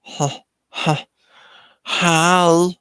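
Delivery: alien struggling out a first word; Six Six. Acted. Alien answers the little girl, panting then blurting it. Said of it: "six six is like".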